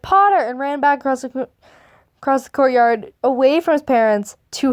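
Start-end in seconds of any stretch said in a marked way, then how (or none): 0.0-0.4 higher, louder call of the surname; mock shout, short and sudden; retold shout. Telling how Draco shouted across the courtyard, a mock shout. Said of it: "at which point he shouted".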